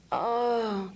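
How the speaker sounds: drawn-out pained "oh"; headache groan. Shown as a demonstration. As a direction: let the ache out in a groan. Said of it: "the voice comes out".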